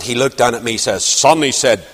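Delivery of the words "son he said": imitated big Scotsman's accent; Scottish accent. Elder to the young preacher, Scottish accent. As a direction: address him in a Scottish accent. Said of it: "in his big Scottish accent".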